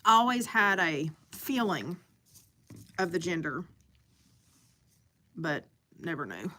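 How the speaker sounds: talking while eating; words round a bite of food; mouth full. Real, not acted. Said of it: "I'm sorry, y'all, I'm eating".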